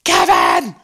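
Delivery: low, loud hammed-up yell; mother in an imagined extended scene, low mock bellow; mock shout. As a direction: bellow the name in a comic low voice. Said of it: "she goes".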